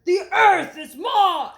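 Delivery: loud, high possessive shout; loud high frog claim. Acted. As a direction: yell it to claim the land. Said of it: "shouted Rupert".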